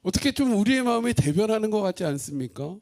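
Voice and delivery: ordinary talk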